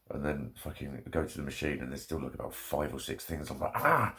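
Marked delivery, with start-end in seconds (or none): 3.7-4.1 frustrated shout. Retold or imitated. Retold frustrated outburst at laundry.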